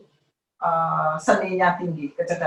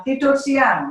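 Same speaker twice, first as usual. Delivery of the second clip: father's order; 8 semitones higher, 4 dB louder, slower than usual. Retold or imitated. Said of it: "Bapaknya bilang".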